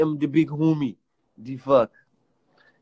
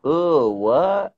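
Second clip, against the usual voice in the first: imitating catchphrase. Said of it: "hit it for me one time".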